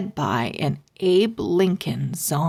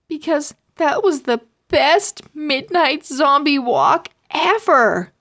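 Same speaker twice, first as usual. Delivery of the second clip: excited; 7 semitones higher, 4 dB louder than usual. Acted. Kids thrilled after the run.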